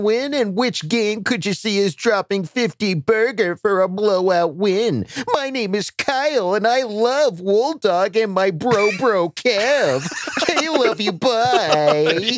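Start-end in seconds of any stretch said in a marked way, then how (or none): 5.3-12.4 whiny little sibling. Acted. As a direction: whine it like a little brother. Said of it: "You went with the whiny little brother voice".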